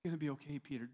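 soft, gentle reassurance; imagined tender Jesus. Pretend. Jesus gently reassures Peter after the denial, softly. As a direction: quietly comfort a friend who failed. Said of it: "Saying, almost like".

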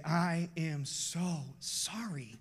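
put-on slow, heartfelt apology to his kids; father apologising to his children, slow and heartfelt. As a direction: say it slowly, like you mean it. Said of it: "grab my kids and say".

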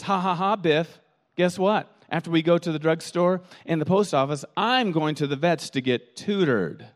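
mock boastful dog voice; a hint of a proud dog. Dog boasts to neighbor Biff, lightly voiced. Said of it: "pridefully talking".

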